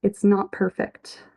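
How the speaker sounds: measured, heartfelt reading of a lyric; poem recitation. Acted. Host reciting a lyric to her audience, tender reading.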